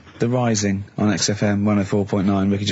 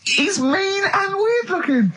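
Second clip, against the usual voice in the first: high, slow, amazed gasp; stunned and delighted, slow and high; gasping shock; slower than usual. Real, not acted. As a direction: gasp it out in mock horror. Shocked gasp at Carl's remark.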